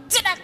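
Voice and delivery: sharp vocal slicing sound; cutting noise. Retold or imitated. Preacher re-enacting his cutter cut, sharp cutting noise. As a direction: imitate a quick blade cut.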